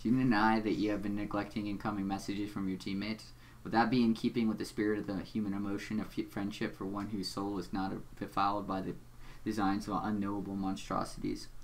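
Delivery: low, measured, quiet villain voice; deep Doc Scratch voice. Acted. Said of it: "talking in, like, a really deep voice".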